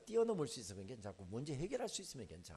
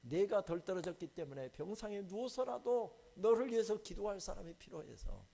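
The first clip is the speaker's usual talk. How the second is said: God rebuking. Retold or imitated. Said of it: "책망하시더라고요".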